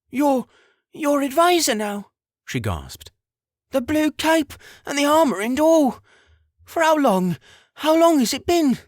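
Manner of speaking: high, loud, breathless wonder; a mother gasping in disbelief; amazed mother voice. Acted.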